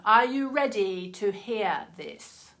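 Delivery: slow, hammed-up Moira lilt on ready; mock-grand theatrical drawl; Moira impression. To viewers, teasing the card reveal in mock Moira voice. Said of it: "Such a weird accent she has".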